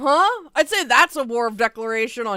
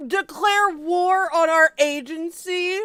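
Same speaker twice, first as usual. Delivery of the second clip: slow, higher disbelief; incredulous repeat; 7 semitones higher, 3 dB louder, slower than usual. Real, not acted. Streamer incredulously echoing the quote, slow and high. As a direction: repeat it back, stunned and slow.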